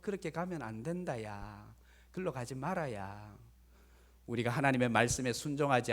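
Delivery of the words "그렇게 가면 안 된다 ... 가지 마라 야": very soft, low shepherd's chiding; softly voiced gentle warning. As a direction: hush it down, nudging strayed sheep back. Shepherd gently chides straying sheep.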